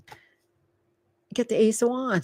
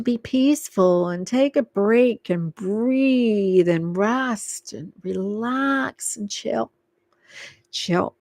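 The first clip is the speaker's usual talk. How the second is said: slow and calming; slower than usual. Real, not acted. Calming advice.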